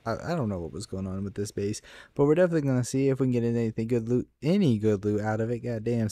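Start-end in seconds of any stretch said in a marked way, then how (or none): 2.1-5.6 very fast rattled-off words; rapid auctioneer patter. Real, not acted. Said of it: "sounded like an auctioneer".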